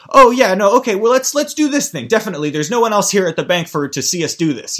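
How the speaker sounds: high, loud overeager improv voice; hammed-up improv scene partner; improviser in a scene. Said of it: "for an improviser to say".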